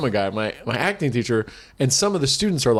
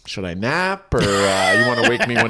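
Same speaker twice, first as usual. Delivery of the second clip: low mumbled sarcasm, half whispered; sleepy mock boredom; bored sarcastic aside; 3 semitones lower than usual. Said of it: "And I'm like".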